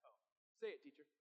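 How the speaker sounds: mock the teacher with a dry sneer; Simon's mildly sarcastic reply to Jesus. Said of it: "I think he says it sarcastically".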